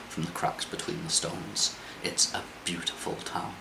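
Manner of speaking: calm storyteller's scene setting; scene narration. Acted. GM describes the town.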